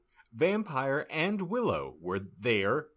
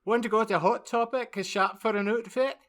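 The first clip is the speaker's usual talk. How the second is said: put-on valley girl voice; 11 semitones higher, faster than usual. Voicing gothic teen character.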